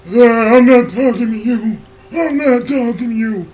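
mild mock old-man refusal. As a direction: brush them off like a dismissive old man. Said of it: "he was just like".

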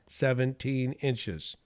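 slow, settled "Seventeen inches." with a firm drop at the end; with confidence. Retold or imitated. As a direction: state "Seventeen inches." as a sure fact. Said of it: "This time they said it with confidence".

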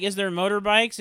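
put-on old prospector. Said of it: "he's like".

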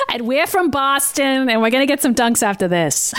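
put-on thick Boston accent. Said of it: "most Boston accent I've ever heard come out of you".

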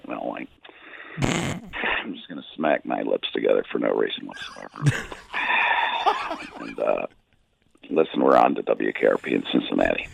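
very low mumbling monotone with lip smacks and sighs; Bill Belichick. Acted. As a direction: mumble it deep down, barely bothering. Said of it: "Bill Belichick is going to mumble".

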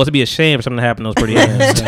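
menacing mob boss threat, half laughing; veiled threat, smiling through it. Acted. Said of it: "I'm gonna talk like a mob boss".

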